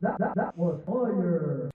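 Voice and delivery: quiet electronic video-game voice, "fire" drawn out. Playing an edited clip of a spoken line: low, video-game-sounding voice. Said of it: "low, you know, sounding, almost like, uh, video game sounding voice".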